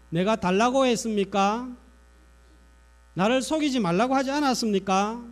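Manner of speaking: mild mock-accusing questions; resentful complaint. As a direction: protest as the aggrieved woman. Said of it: "원망하는 말을 합니다".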